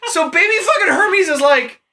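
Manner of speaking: laughing through the words, pitch jumping up; cracking up mid-sentence. Real, not acted. Laughing while telling her friend the baby story.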